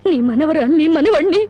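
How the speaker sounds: sobbing through the words; crying. Acted. Defeated wife crying to the grandmother. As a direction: weep as you hand the children over.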